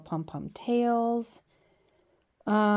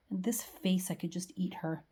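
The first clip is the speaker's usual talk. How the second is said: doting whisper; 7 dB quieter than usual. Real, not acted. Doting over a photo.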